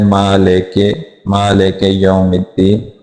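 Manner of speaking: मालिके with lax "e" for "i"; everyday mispronounced मालिके; majhool vowels. Shown as a demonstration. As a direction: say मालिके ending in an "ay" sound, unchanted. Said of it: "मजहूल पढ़ते हैं".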